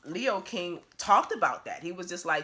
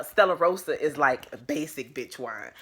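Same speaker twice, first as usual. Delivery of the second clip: mocking sister; 3 semitones lower, 3 dB louder than usual. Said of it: "She was like".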